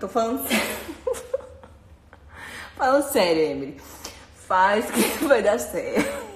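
trying to sound serious but laughing; giggling. Real, not acted. Insisting to Emily she's serious, giggling. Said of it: "Tem que parar de rir".

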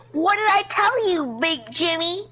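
slow, high told-you-so whine; Karen voice. Real, not acted. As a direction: gloat like an entitled Karen. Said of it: "You sound like a Karen".

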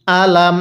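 "আলাম" with an unstretched first "a"; short hamza. Shown as a demonstration. Teacher spells it out, "আলাম" with short first vowel. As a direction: keep the opening of "আলাম" short. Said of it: "হামজায়ের মধ্যে কোনোভাবেই টান দেওয়া যাবে না".

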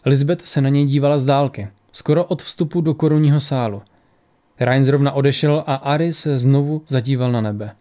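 measured audiobook reading with lightly voiced dialogue; story narration. A narrator's reading. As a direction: read the tale aloud, pausing between phrases. Reads the story aloud. (vyprávění příběhu)

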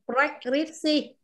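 preskripsi very slowly, puffing the p up front; slow demo. Shown as a demonstration. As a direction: start preskripsi with a breathy p, then rec. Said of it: "Bật hơi xong mới đến rec".

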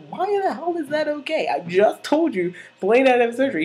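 high-pitched mock indignation; Santana. Santana outraged about Blaine's surgery, high acted protest. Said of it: "She's like".

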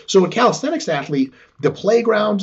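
ordinary delivery

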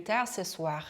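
slow teacher's French, "plus" said as "plu"; measured demo, no S in "plus"; silent S model. Shown as a demonstration. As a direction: drop the S in "plus" before "tard". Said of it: "요렇게 plus로 발음을 했습니다".

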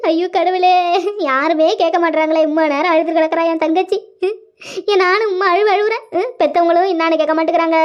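mild mock-tearful lamenting; wailing lament. Sister bemoans that nobody listens, tearful wailing. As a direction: lament to God in a put-on cry. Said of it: "எப்படி அழுதுகிட்டு ஒப்பாரி வச்சுக்கிட்டு வருது".

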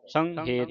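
ਸੰਹੇਤ with nasal "san", then "het". Shown as a demonstration. Teacher showing the spelling aloud, ਸੰਹੇਤ as "san-het". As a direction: sound the h in ਸੰਹੇਤ. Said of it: "ਇਸ ਤਰ੍ਹਾਂ ਪੜ੍ਹਨਾ ਹੈ".

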